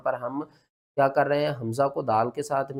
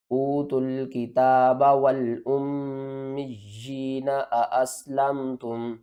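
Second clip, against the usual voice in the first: Quranic recitation. Shown as a demonstration. Teacher recites the verse for students, melodic recitation.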